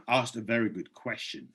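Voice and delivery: hoarse, voice giving out; tired, hoarse voice. Real, not acted. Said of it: "I'm already losing my voice again".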